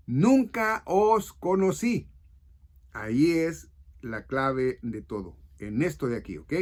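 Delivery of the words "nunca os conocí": "nunca os conocí" slow, high and louder, every word weighted; emphatic verse repetition. Retold or imitated. Preacher repeating the key verse to listeners, "nunca os conocí" slowly emphasized. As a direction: drive home "nunca os conocí", stretched out and raised.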